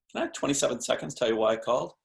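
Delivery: quick, light, curious ask; playful, curious. Shown as a demonstration. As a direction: make it sound like a playful favor. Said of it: "Which is a playful, curious way".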